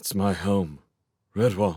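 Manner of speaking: empty, hollow tone. Reading a story aloud, a character answers a friend: hollow voice. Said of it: "Matthias said in a hollow voice".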